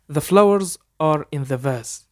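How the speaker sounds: very slow, careful English for learners to copy; slow dictation pace; slow model sentence. Shown as a demonstration. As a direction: spell it out slowly so students can repeat. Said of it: "حاول تقلدني".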